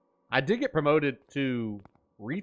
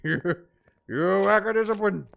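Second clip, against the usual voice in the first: a lightly voiced Papa Sensei, louder and falling; quoting Papa Sensei; 6 semitones higher, 6 dB louder than usual. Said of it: "As Papa Sensei once said".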